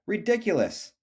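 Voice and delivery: high scoffing dog voice; lightly doggy voice mocking Shelley; barking dog. A narrator's reading. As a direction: bark the word out in scorn. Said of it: "barked the dog".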